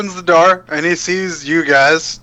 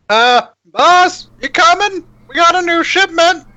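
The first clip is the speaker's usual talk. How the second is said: high squeaky rat henchman voice; squeaky bickering rat chorus; 5 dB louder than usual. Acted. DM voices a were-rat at the door.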